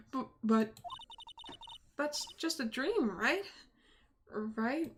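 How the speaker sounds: lightly voiced dialogue, dramatic; a hint of a troubled young attorney; game character read. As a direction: read the scene like a grave courtroom drama.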